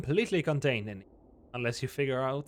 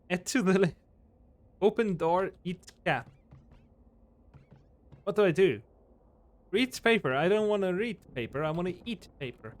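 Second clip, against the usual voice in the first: loud whiny complaint; 4 semitones higher, 5 dB louder than usual. Real, not acted. Player complaining about having to read paper, higher and louder. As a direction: whine at the game's demands.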